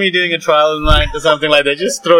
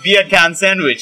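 slow Jamaican-sounding "Beer can sandwich"; Jamaican accent; 4 semitones higher, slower than usual. Shown as a demonstration. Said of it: "it sounds more Jamaican".

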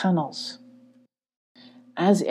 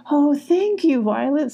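high, heartfelt thanks; grateful; 8 semitones higher than usual. Acted. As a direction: gush with relief to a friend. Grateful thanks before a hug.

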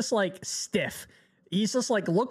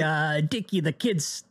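mobster voice; slower than usual. Retold or imitated. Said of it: "a mobster impression".

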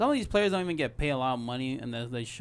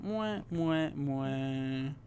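double air kiss; much slower than usual. Shown as a demonstration. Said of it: "That's how it sounds like right now".

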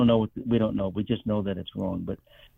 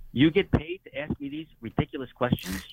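high, disbelieving retort, much higher pitch; incredulous; 14 semitones higher than usual. Retold or imitated. Patient to hospital worker, high incredulous retort. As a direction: throw the question back in disbelief.

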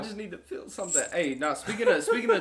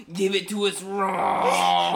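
Smeagol impression; 4 dB louder, much slower than usual. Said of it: "whenever he was like".

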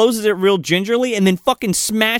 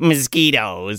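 slow, lowered comic impression; French Stewart; 4 semitones lower, slower than usual. Podcaster riffing on an actor impression, slow and low. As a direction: stretch the word out, pitched down. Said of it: "it's hard to do French Stewart".

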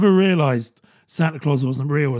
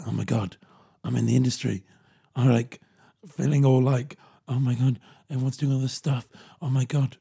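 nervous newbie; 4 semitones lower, 5 dB quieter than usual. Retold or imitated. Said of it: "had that nervous, overwhelmed face".

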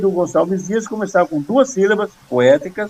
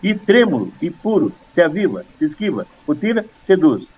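short, separated rhythmic phrases of a memorised poem; chant-like scansion, pausing after every foot; two-syllable verse recitation. Shown as a demonstration. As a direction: recite in tiny two-syllable beats, each falling. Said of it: "com duas sílabas".

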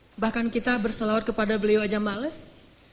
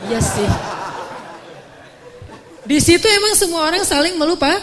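laughing; 4 semitones higher, 7 dB louder than usual. Real, not acted.

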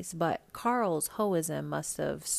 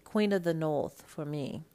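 put-on London accent. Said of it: "I did pop into my London accent for that one".

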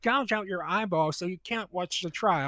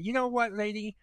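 mock threat; 6 dB louder than usual. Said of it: "I was like".

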